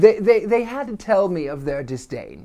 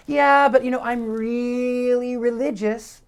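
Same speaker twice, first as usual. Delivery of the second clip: mimicking the woman; 7 semitones higher than usual. Imitating the polite shop woman.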